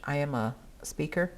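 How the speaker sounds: normal talking voice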